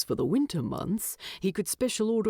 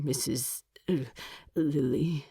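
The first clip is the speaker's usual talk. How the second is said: stutter; 4 semitones lower than usual. Acted. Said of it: "She was a poor woman to have stuttered".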